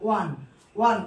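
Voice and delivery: "ওয়ান" opening on a "w" glide. Shown as a demonstration. Teacher contrasting spelling with sound, "ওয়ান" pronounced "wan". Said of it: "অ এর মতো হচ্ছে না".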